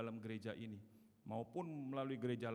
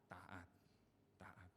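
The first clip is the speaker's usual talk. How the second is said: much softer, lower, stressing Taat; hushed repetition; 5 semitones lower, 14 dB quieter than usual. Shown as a demonstration. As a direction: breathe Taat out softly. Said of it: "T A A T".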